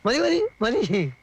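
enough, enough, said slow and firm; slow insistent enough. Acted. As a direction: stretch each word slowly. Stopping him, drawn out.

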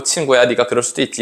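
low, gentle reassurance to a friend; forgiving, embracing. Acted. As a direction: let a friend off generously. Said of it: "다 이제 안아줄 수 없을까".

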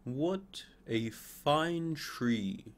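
very slow, admiring exclamation; a hint of impressed onlookers; admiring passersby. People admiring the grown fir. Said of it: "people that saw him said".

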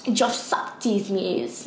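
slow, drawn-out attempt at a British accent. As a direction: stretch each word out in a put-on British accent. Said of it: "Why am I saying it in a British accent?".

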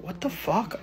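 retold reaction, very soft; stunned undertone. Son retells overhearing his mother crying, stunned undertone. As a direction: say it under your breath, baffled.

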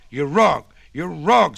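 firm granny. A narrator's reading. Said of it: "said old Granny Goose".

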